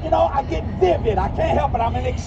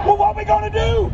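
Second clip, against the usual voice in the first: flustered stewardess; 6 semitones higher, 5 dB louder than usual. Retold or imitated. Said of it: "the Delta stewardess went".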